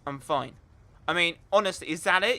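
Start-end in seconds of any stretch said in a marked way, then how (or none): 0.1-0.6 low, downbeat imitation of a non-answer; subdued brush-off. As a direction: mimic someone closing the subject. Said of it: "when you say to someone".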